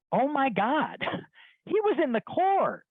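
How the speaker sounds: high, drawn-out disbelief with a laugh; high-pitched incredulous exclamation; mock astonishment. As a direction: act amazed and amused. Mock shock at guy's career move.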